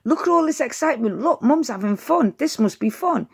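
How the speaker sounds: a puppy thrilled by the fuss; excited dog thoughts. Retold or imitated. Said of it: "that's saying".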